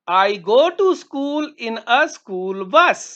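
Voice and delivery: slow, clear model sentence; slow model answer. Shown as a demonstration. Teacher modelling an answer for students, slow and clear. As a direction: say each word slowly for the class. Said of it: "हाँ".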